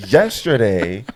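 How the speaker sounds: put-on yesterday in a drawn southern accent. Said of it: "I don't know why I'm speaking in a southern accent".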